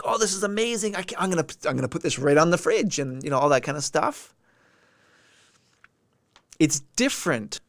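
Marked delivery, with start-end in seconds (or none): 0.0-3.0 pandering praise. Retold or imitated. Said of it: "you're playing up like".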